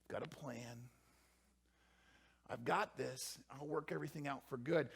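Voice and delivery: hushed, soft reassurance; God's gentle whisper. Acted. God reassuring the mother, softly hushed. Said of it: "He says".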